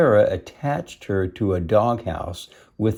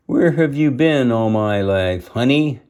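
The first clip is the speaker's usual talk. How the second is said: teasing bulldog; 4 semitones higher, 5 dB louder than usual. Acted. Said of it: "teased the Bulldog".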